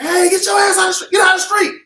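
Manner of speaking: high, loud yelling warning; urgent shout. Retold or imitated. Yelling at someone standing in the street, loud shout. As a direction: yell it like a truck is coming. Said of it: "I'ma say it like I mean it".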